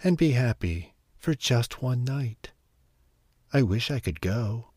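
Cinderella alone by the fireplace, softly tearful; tearful wish. Acted. Cinderella crying by the fire, wishing for the ball, tearful. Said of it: "she said through her tears".

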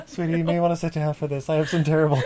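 laughing through grave news, fast; breaking bad news. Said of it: "that was very nice".

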